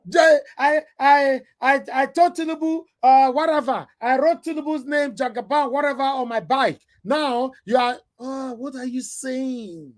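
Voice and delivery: high, excited mimic of a fan; mocking supporter. Scene: vlogger mimicking a Tinubu supporter boasting, high mock voice. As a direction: keep the squeaky fan voice going. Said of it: "continues mocking supporter".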